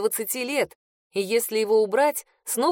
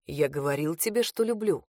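low, softer male voice; a hushed lover's confession; Attan, quietly; 5 semitones lower, 3 dB quieter than usual. A narrator's reading. Attan reminds her he loves her, low and soft. Attan speaks through their bond.

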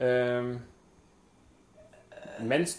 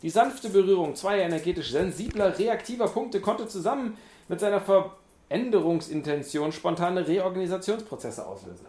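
loud, higher pompous reading; dramatic announcer; 4 semitones higher, 4 dB louder than usual. Pretend. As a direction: read it like a grand ad.

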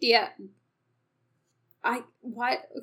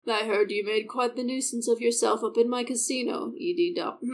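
a lightly lowered, menacing casino owner; a hint of a smug villain's lower voice; deep casino boss. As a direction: speak down to him like you own the place. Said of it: "His voice is so deep".

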